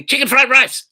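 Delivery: high, loud mock drunken yell from the dark; imitated heckler scream. Drunk heckler interrupting the show again, loud mock yell. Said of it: "I hear".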